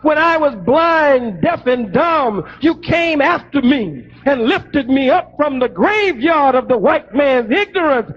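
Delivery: a preacher's rising rebuke, full voice; fiery preaching. Acted. Son denouncing his spiritual father, preaching at full force.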